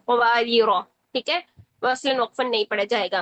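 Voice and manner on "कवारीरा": कवारीरा without a long final alif; कवारीरा ending short; Qur'anic recitation. Shown as a demonstration. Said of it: "उसको ऐसे पढ़ेंगे".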